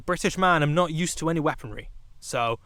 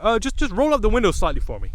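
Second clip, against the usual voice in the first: higher-pitched, casual cop request; police officer; 5 semitones higher, 3 dB louder than usual. Retold or imitated. Officer to driver about the window, imitated casual request. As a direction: imitate an officer making an audacious little ask. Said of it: "He's like".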